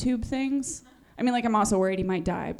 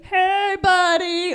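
higher, louder hearty greeting; pushy salesman; 9 semitones higher, 7 dB louder, much slower than usual. Retold or imitated. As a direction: play the overfriendly resort guy. Pushy resort guy greeting.

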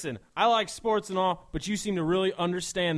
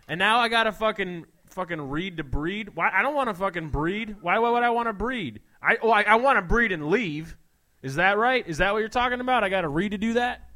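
a touch louder, higher bro outrage; bro rant; 3 semitones higher, 5 dB louder than usual. Acted. Bro protesting the rule to his buddy, mildly loud. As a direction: rant like an offended meathead.

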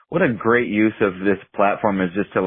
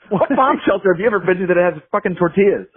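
laughing; 7 semitones higher than usual. Real, not acted. Laughing retort.

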